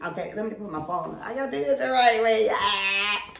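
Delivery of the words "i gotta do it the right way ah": high, loud, giggling through the words; laughing at her own bit. Real, not acted. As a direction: laugh while you say it.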